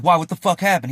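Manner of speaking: mildly heated retold dad on the phone; getting mad. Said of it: "He's getting mad".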